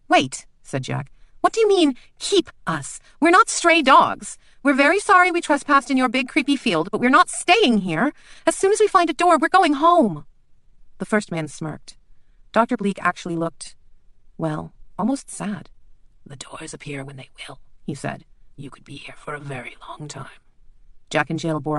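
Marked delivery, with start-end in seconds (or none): 0.1-10.2 much higher and louder, protesting; a scared child insisting on going home; frightened girl. Acted. Jack protests to the two men, panicking. 16.2-20.4 quietly sad. Acted. Bleak sadly warns the girls they may be stuck.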